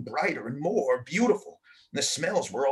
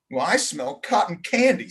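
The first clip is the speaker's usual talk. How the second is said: calling out; 3 semitones higher, 4 dB louder than usual. Acted. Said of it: "Samantha called out".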